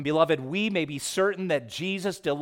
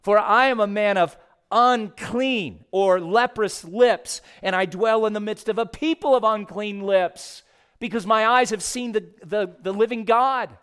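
Isaiah's ruin, voiced higher and louder; a raised, stricken lament; anguished cry; 6 semitones higher, 5 dB louder than usual. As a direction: cry it out as a man undone before the holy God. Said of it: "cried out".

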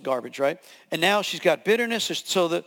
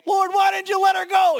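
mock complaint; 13 semitones higher, 5 dB louder than usual. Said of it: "I'm like".

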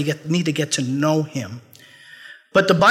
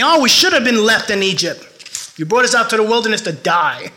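higher, louder whiny mock complaint; complaining Israelites; 4 semitones higher, 3 dB louder than usual. Preacher voicing thirsty Israelites grumbling at Moses, whiny and loud. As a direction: ham up the grumbling crowd in the desert.

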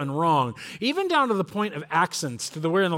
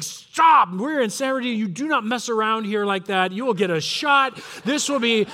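raised, urgent dad warning; mock stern dad; 3 semitones higher than usual. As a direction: imitate a father abruptly shutting the joke down. Serious dad abruptly warns his kids.

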